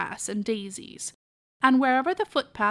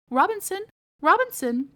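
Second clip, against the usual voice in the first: calling out; 8 semitones higher, 4 dB louder than usual. Acted. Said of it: "called Aunt Dorcas".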